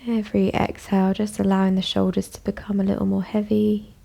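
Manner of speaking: calm, even voice with long pauses; guided meditation. Acted. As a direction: guide them gently inward, leaving space after each phrase. Invites listeners to relax.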